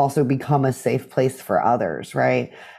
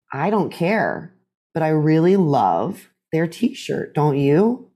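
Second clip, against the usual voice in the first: gentle reassurance; slower than usual. Shown as a demonstration. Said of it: "what I teach people to say".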